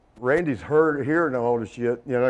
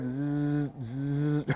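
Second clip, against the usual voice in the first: drawn-out "zzz" of electric clippers; imitated clipper buzz; 7 dB quieter than usual. Storyteller imitates the haircut noise from the plane, buzzing. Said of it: "then you hear".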